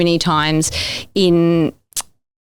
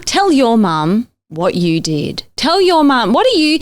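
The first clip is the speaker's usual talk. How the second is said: stern teacher; 4 semitones higher than usual. Retold or imitated. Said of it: "my kids' teachers would say".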